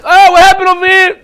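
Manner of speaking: nurse voice. Retold or imitated.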